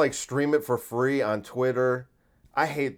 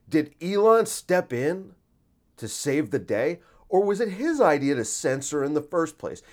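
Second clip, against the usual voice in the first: news anchor voice; 4 semitones higher than usual. Pretend. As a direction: read it like a cheesy TV anchor. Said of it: "comes out in a news anchor voice".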